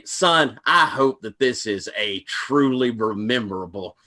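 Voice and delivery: warm, slow preacher farewell; a gracious minister seeing you off. Acted. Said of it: "preacher saying bye at the end of the thing".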